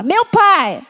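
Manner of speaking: calling to father. Shown as a demonstration.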